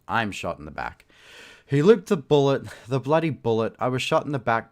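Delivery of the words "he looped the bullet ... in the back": loud, high indignation; outraged. A narrator's reading. Guard shot by own bullet, loudly outraged. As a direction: burst out in disbelief and fury.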